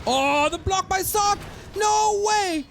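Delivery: excited high-pitched play-by-play; esports caster. Real, not acted. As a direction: hype the play, voice soaring. Caster hypes a big play.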